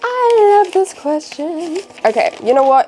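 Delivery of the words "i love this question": higher, slow gushing; drawn-out thrilled squeal; excited squeal. Real, not acted. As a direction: gush happily over it. Fan asked favourite song.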